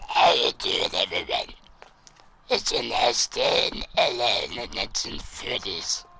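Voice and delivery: gruff put-on voice; character voice. Shown as a demonstration. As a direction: try out a rough character voice. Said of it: "opinion on this voice".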